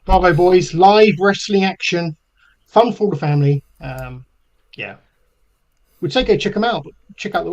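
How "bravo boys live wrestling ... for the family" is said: mock announcer. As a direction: plug it like a hammed-up ring announcer. Mock promo for the wrestling show.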